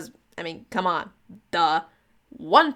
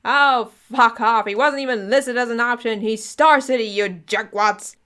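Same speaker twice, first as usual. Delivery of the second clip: angry rant; 3 semitones higher, 5 dB louder than usual. Acted. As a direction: spit it out at the agents, dragging the end.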